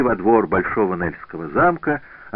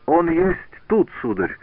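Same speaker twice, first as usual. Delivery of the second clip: put-on German-accented shout; 9 semitones higher than usual. A narrator's reading. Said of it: "крикнул Герман".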